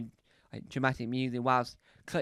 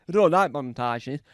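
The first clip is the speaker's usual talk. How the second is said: a lightly put-on louder presenter voice; different voice; 7 dB louder than usual. A hint of veteran presenter, louder declaration. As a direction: say it like a seasoned TV host. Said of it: "I'm just trying to do a different voice".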